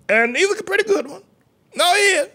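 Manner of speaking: squeaky high falsetto; preacher's high, strained squeal; high-pitched insistence. Real, not acted. Preacher keeps up squealed verdict.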